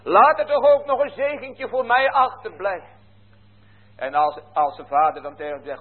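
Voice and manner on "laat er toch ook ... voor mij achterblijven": high, loud begging cry. Retold or imitated. Esau cries out to his father for a blessing, loud and high. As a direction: call out desperately to his father. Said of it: "begint hij ook hard te schreeuwen".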